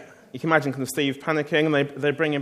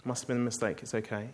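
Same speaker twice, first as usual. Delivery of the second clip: forgiving; 3 semitones lower, 5 dB quieter than usual. Pretend. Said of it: "Steve has to be the one to say".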